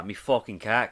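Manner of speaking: a light English accent on request; lightly put-on English voice; an English accent, laughing. Shown as a demonstration. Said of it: "Say cock".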